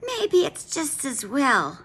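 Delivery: high, slow gentle wife voice; mild wife. A narrator's reading. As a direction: murmur it hopefully to your husband. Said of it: "said Missus Wagon Wheel".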